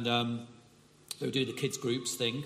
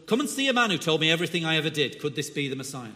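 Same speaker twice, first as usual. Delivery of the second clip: put-on brisk, louder northern accent; 2 semitones higher, 5 dB louder, faster than usual. Woman calling townspeople to see the Messiah, northern accent. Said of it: "put on a northern accent".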